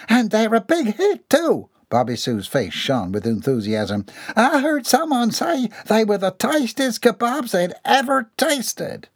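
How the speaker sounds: high, eager and pleased twang; proud servant. Acted. Bobby Sue bragging to Missus Dixon about the kebabs, high. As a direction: boast with bright enthusiasm.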